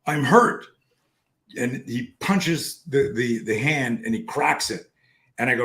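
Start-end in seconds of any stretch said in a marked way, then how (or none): 0.1-0.7 high, slow imitation of a pleading child; protesting hurt son. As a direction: drag it out like a reluctant, hurt kid. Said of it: "he goes".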